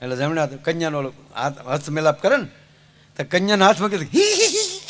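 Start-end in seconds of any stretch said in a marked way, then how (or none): 4.1-4.8 high ticklish giggling; high giggle. Retold or imitated. Bride giggling as the groom takes her hand.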